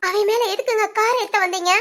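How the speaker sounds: crying, she demands an answer; tearful demand. Acted. Daughter confronts her mother about Ram.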